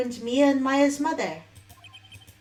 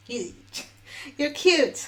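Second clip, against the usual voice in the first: laughing; 3 semitones higher, slower than usual. Real, not acted. Giggling at her own voicing.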